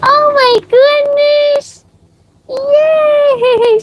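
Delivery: very high, slow, squealing delight; thrilled cheer. Real, not acted. Owner cheering the dog finally going, very high squeal. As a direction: celebrate like she won a prize.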